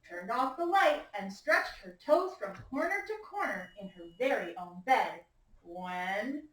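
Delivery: suspenseful read-aloud, slowing down; story reading. A narrator's reading. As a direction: build the suspense for the children. Teacher reads picture book aloud.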